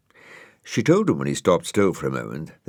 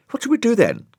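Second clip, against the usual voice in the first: high, chirpy snail voice; a cheery little snail squeaking up; Brian the snail; 5 dB louder, faster than usual. Acted. Brian telling Dougal they have one cup, high and chirpy.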